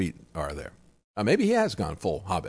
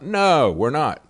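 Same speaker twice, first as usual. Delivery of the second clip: mildly mock a crowd shouting, no higher and louder; raised, high "no" easing off quickly; retold shout; 4 semitones higher, 5 dB louder, much slower than usual. Employees answering the man being thrown out, mock shout. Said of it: "they shout out".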